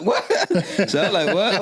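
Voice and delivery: high, laughing disbelief; taken aback, laughing it off; retold amused shock. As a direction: react incredulously through a laugh. Retold shock at being told hell.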